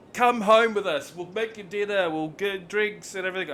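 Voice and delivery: mock effusive welcome; gushing invitation. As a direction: imitate over-friendly Americans. Imitates gushing, over-friendly Americans.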